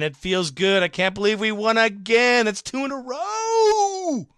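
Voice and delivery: pumped-up fan voice climbing high; excited fan. Retold or imitated. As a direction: read it like a fan who can't believe the win. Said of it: "The Boogie Monster comes in".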